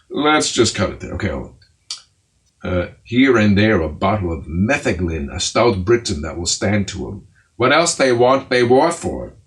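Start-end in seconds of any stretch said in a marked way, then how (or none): 3.0-9.4 dramatic verse reading. Acted. Bedtime reader declaiming old comedy to listeners. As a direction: declaim the old play like a ham actor.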